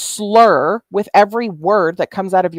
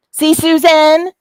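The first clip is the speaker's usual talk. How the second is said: gloating; 8 semitones higher, 6 dB louder, slower than usual. Real, not acted. Triumphant gloat at Susan.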